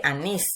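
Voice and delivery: "anís" with the weight on NÍS; "anís", last syllable stressed and held. Shown as a demonstration. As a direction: lean on the final syllable of "anís". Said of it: "la sílaba tónica".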